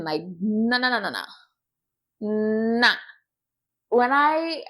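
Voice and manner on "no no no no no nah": firm, repeated mock refusal; imitated conviction. Imitating a man who rules it out, with conviction. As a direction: reject it with total certainty. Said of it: "said it with such conviction".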